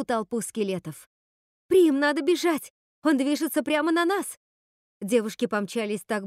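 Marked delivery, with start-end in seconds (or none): 1.7-4.4 испуганный крик. Acted. Сестра в панике зовёт бежать.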